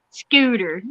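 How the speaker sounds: Scooter with a light Southern drawl; Southern twang. Shown as a demonstration. Correcting the coworker, naming the fish in Southern twang. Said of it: "you have to say it with that Southern twang".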